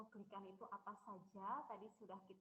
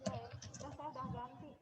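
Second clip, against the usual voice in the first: nasal voice like a head cold; stuffy nose; 2 semitones higher, 4 dB louder than usual. Real, not acted. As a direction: talk through a blocked nose. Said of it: "Suaranya bindeng kayak orang pilek".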